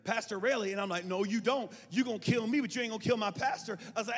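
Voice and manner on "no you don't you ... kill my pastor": defiant loud stand. Retold or imitated.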